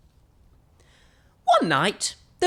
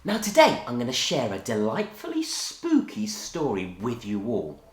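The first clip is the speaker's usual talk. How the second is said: put-on overbright kids party host. Host greeting kids on video.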